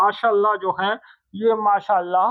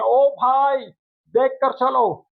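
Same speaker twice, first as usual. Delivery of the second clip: calling out; 4 semitones higher, slower than usual. Shown as a demonstration. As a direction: call out to a man walking ahead. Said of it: "तो आप उसको आवाज देते हैं".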